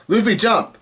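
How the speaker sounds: high-pitched retold cry; Usopp's mock yell. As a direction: cry out without really shouting. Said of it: "Usopp yells out".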